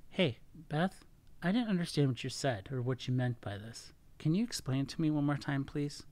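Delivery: calm, non-attacking request; gentle, honest check-in with a partner; relaxed, open. Shown as a demonstration. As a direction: ask openly, without judging. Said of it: "I'm more relaxed. I'm more open".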